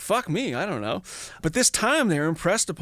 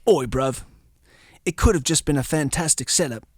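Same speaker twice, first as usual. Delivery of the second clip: mock British accent. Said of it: "It's my terrible German accent".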